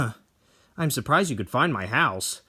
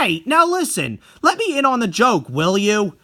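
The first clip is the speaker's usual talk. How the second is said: nervous laugh; 9 semitones higher, 5 dB louder than usual. Acted. Painter laughs along nervously.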